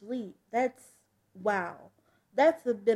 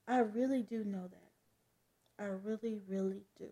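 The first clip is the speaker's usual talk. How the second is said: quiet reassurance; 2 semitones lower, 7 dB quieter than usual. Acted. Daughter reassuring her parents she knows, quiet.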